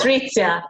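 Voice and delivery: Patrizia said natively, with a "ts" Z; Italian pronunciation. Shown as a demonstration. Attendee showing the host her name, Patrizia pronounced in Italian. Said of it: "It's Italian name".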